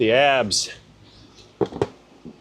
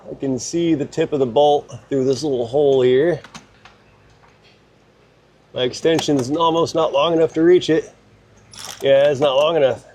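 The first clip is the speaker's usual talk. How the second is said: up a ladder. Real, not acted. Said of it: "I'm up on a ladder".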